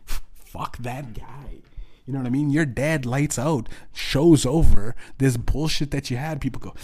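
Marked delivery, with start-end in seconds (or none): 0.0-1.6 chuckling it out, soft and slow; amused echo of the whispered curse; laughing repeat. Retold or imitated. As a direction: laugh through the line. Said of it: "repeats it laughing".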